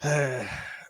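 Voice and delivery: heavy exhaled sigh in character; acted sigh; weary sigh. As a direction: sigh as the knight before answering. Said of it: "Gunther's like".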